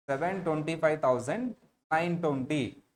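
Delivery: patient teacher demonstration; slow model reading. Shown as a demonstration. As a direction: read the figure out slowly for the class. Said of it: "ఎలా పిలుస్తారు వాళ్ళు".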